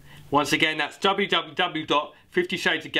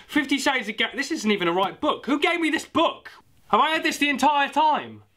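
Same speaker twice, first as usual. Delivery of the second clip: confused surprise; 10 semitones higher than usual. Real, not acted. Realises he has wrong book.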